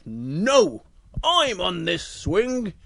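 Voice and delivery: slow, firm refusal; polar bear voice. Acted. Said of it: "And the polar bear goes".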